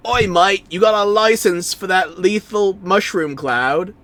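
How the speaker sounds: a rough Aussie bloke, broad Australian; Australian accent. Acted. Streamer to the bomb, in a mock Australian accent. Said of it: "The accent was Australian".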